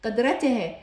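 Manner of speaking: قدرته said qudratehe, ending tehe; voweled h ending. Shown as a demonstration. Teacher showing the constant h, قدرته ending in tehe. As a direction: end قدرته on te-he. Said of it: "فهنا لفظتها هاء".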